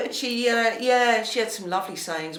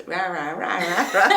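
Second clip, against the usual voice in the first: imitated noisy rah-rah babble; playful mimicked racket of rahs; mock rah-rah; 5 dB louder than usual. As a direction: rattle off rah-rah, breaking into laughter. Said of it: "like, like this".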